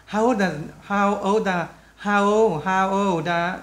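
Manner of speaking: put-on "how old are" repeated with "old" sliding into "are"; repeated linked model of "how old are"; linking drill. Shown as a demonstration. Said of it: "Đọc nối chỗ này vào nhau".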